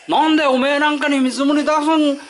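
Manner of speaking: contemptuous refusal. Retold or imitated. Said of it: "って言い渡すやつがいるからね".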